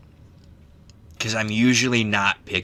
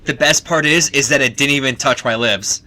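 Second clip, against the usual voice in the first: louder, laughing through it; loud laughing boast; 4 semitones higher, 8 dB louder than usual. Real, not acted. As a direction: crow about the trick. Triumphant after gross drink.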